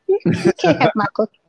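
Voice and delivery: put-on high, fast little girl voice; Girl Scout voice. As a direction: sell cookies like a Girl Scout. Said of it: "That's a Girl Scout cookie voice".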